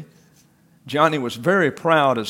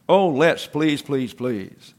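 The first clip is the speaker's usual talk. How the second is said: eager begging that fades away; plead, trailing off; 4 dB louder, slower than usual. Acted. Children begging their teacher to eat the candy, pleading.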